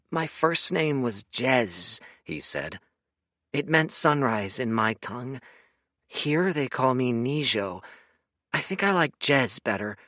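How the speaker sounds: lightly voiced pondering boy.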